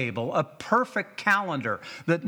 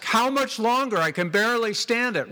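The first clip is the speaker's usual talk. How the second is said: higher, strained plea; strained patient; 6 semitones higher than usual. Retold or imitated. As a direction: plead through the pain. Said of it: "And I would ask".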